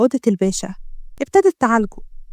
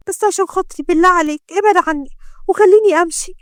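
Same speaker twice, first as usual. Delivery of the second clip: higher, pleading woman's voice; frightened doctor; 4 semitones higher than usual. Acted. Doctor begs the gangster to let her go, frightened. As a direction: ask to leave, scared.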